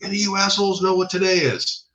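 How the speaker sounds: high, strained drill sergeant call; imitated sergeant on a megaphone; yelling drill sergeant. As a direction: address the whole formation as a drill sergeant. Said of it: "He's yelling at everybody".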